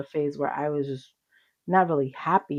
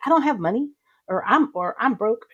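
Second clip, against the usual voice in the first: higher, louder mock protest; mock complaint; 6 semitones higher, 6 dB louder than usual. Catching herself pleading poverty to her kids, mock complaint. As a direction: imitate your own knee-jerk money excuse.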